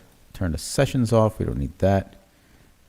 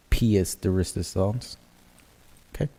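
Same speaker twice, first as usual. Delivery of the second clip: bad French accent; 3 semitones higher than usual. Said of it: "Promise I won't do that bad French accent again".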